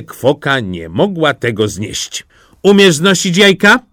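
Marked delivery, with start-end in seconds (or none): 2.6-3.8 high, loud, scolding hen; the hen looking down on the duckling; hen's sharp, higher voice; bossy hen. Acted. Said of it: "spytała".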